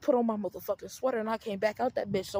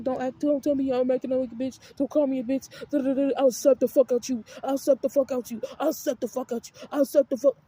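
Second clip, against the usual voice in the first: louder imitated threats, repeated; mock angry threats; 5 dB louder than usual. Sister mimicking brother's loud slap threats. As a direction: ham up his shouting threats.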